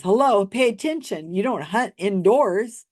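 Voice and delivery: sarcastic hello, pay attention; mocking scold. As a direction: talk down to her as if it's obvious. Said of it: "he says".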